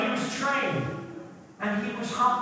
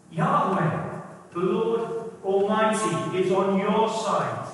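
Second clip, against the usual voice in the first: preaching emphasis; 2 semitones lower, slower than usual. Real, not acted. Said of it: "preaching climax".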